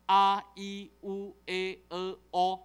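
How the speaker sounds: each Taiwanese vowel said separately and clearly; vowel demo. Shown as a demonstration. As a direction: spell out the vowels 啊、e、u、a、e、o one by one. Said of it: "台湾话有六个母音". (逐个念台湾话母音)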